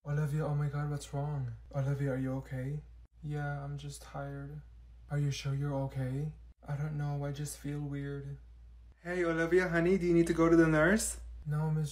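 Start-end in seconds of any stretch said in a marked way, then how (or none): 3.2-8.4 much softer, slow, downcast; quiet tearful mumble; sad, teary. Acted. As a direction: barely hold back tears. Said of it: "She's crying".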